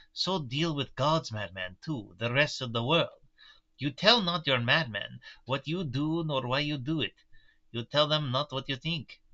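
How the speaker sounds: put-on light German-Russian mixed accent; old Dutch professor, lightly accented; Van Helsing accent. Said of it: "the accent I picked for Van Helsing".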